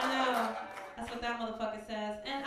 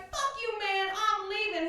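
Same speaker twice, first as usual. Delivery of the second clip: loud, higher, fed-up shout; mock angry yell; 8 semitones higher, 5 dB louder than usual. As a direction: storm off yelling. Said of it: "So I was like".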